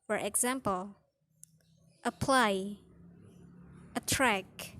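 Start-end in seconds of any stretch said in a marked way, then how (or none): 2.0-2.8 "apply" with PLY stressed; second-syllable stress. Shown as a demonstration. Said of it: "second syllable will be stressed". 3.9-4.7 "attract" with TRACT stressed; second-syllable stress. Shown as a demonstration. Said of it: "second syllable will be stressed".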